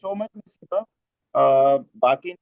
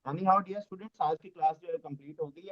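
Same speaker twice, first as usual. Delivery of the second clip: faint breaking call audio; bad connection; 9 dB quieter than usual. Real, not acted. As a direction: voice fading away on the line. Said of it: "नहीं समझ में आ रहा आप क्या बोल रहे हैं".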